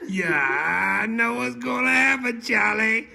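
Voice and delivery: high, loud and eager; excited. Real, not acted. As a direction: blurt it out with glee. Listener excited, predicting the ending.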